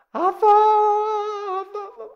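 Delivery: put-on high, long drawn-out child's call; child calling dad. Preacher acting children spotting their dad, child's call. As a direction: imitate a child delighted to see Dad. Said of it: "우리 자녀들도요, 보면 아빠를 보면서".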